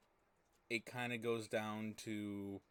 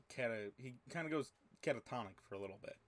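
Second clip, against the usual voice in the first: eating crackers; faster than usual. Real, not acted. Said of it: "I'm eating crackers".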